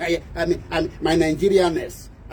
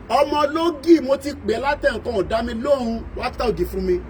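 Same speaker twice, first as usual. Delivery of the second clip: high sing-song hail to a seller; calling out to a hawker; 6 semitones higher than usual. Retold or imitated. Buyer hailing a child selling ogi, high calling voice. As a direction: hail the ogi girl from the doorway.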